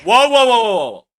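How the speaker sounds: loud, high whoas falling at the end; shouted string of offended whoas; outraged interruption. Real, not acted. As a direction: cut in sharply with alarmed objection. Cuts in, offended by the remark.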